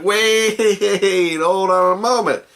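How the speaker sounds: loud, high drawn-out "wait"; frantic halt. Acted. Grimwald tries to halt his angry goblins, frantic shout. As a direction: stop the charging mob in alarm.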